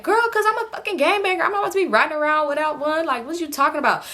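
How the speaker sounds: high, sassy matter-of-fact defiance; cocky high retort; brash attitude. Retold or imitated. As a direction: brush off their worry. Amber defends carrying gun.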